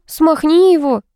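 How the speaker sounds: put-on exasperated girlfriend order; impatient order. A narrator's reading. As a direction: girlfriend scolding jock. Vika ordering Vlad.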